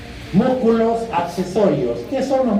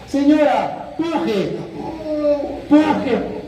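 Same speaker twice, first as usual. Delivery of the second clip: urging push; 9 semitones higher, much slower than usual. Retold or imitated. Doctor urging woman in labour.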